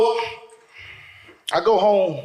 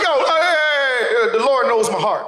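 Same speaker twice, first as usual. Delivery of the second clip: mock pleading; 8 semitones higher, 4 dB louder than usual. Cousin appealing to the cops, hammed-up pleading. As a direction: plead upward, stretching the first calls.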